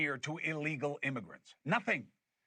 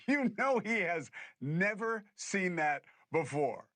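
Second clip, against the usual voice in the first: laughing; 3 semitones higher, slower than usual. Real, not acted. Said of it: "I'm not laughing 'cause I hate Trump".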